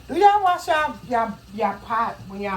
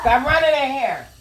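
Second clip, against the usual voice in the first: scolding; 8 semitones higher, 7 dB louder than usual. Real, not acted. Mom scolding child in kitchen.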